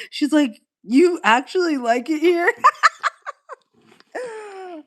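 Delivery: high, loud, laughing through the quote; amused, imitating an incredulous coworker. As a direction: giggle out the coworker's disbelief. Retelling coworker's disbelief, laughing.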